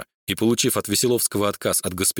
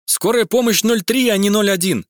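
shouted correction; 10 semitones higher, 4 dB louder than usual. A narrator's reading. Galya corrects Max's emergency number, shouting. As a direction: shout the right number at him. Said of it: "прокричала девушка".

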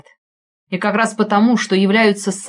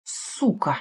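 muttered curse; 8 dB quieter than usual. A narrator's reading. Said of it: "выругался Лапшин".

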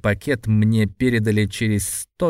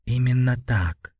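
firm. Acted. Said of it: "твёрдо заявил я".

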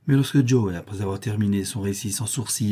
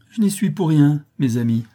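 narrator's acted tearful protest, louder and higher; sobbing plea; 6 semitones higher, 5 dB louder than usual. A narrator's reading. Accused Potter pleading with the crowd, sobbing. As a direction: plead innocence as if through sobs. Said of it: "dit-il en sanglotant".

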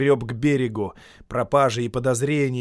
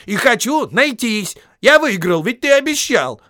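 higher, louder demanding call; insistent shout; 12 semitones higher, 10 dB louder than usual. Acted. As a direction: insist he keeps his word. Bilbo shouting demands at Gollum.

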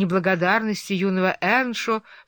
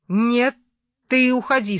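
sharp order; 5 semitones higher, 5 dB louder than usual. A narrator's reading. Heathcliff orders Hareton out.

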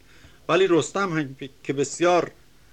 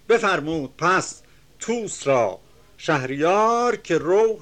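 measured, chanting reading of epic verse; reciting classical Persian verse; poem recitation; 3 dB louder than usual. Acted. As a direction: declaim the couplets with rhythm.

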